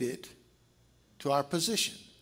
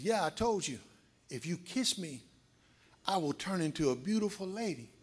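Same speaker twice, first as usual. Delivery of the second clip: insistent repeat; 5 dB quieter than usual. Acted. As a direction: spell it out to someone who missed it. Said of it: "Frog looked at him and says".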